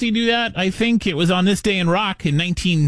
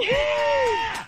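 excited yell; 4 dB quieter than usual. Real, not acted. Radio hosts hyping caller.

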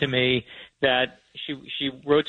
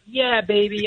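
raised-pitch imitation of a movie extra cheering; mock yell; 7 semitones higher, 3 dB louder, slower than usual. Guest imitates a guy in Grease's background, mock yell. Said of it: "is yelling, like".

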